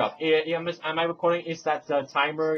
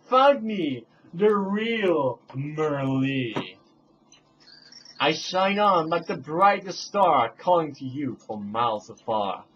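lightly voiced storybook heroine; a hint of a sing-song fairy voice; Merlee voice; slower than usual. Playing Merlee, calling to the hero in a mild sing-song.

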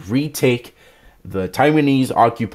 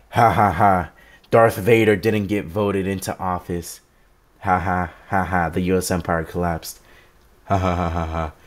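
mock taunting laugh. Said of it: "I'm gonna be laughing in liberals' faces".

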